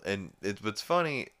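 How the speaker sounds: usual speaking voice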